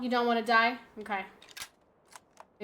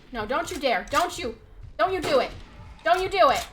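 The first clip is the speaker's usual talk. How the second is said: loud, higher, building yells; shouted taunts; 3 semitones higher, 7 dB louder than usual. Real, not acted. Gamer yelling taunts at a dinosaur while shooting, shouted threats. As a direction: roar threats as you fire.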